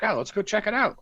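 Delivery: high, coaxing excitement; eager mock boyfriend. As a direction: pitch it up like a pushy boyfriend. Boyfriend voiced eagerly in story.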